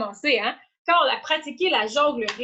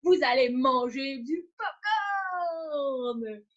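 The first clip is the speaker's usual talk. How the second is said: circus ringmaster; much slower than usual. Acted. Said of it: "je deviens la personne qui présente".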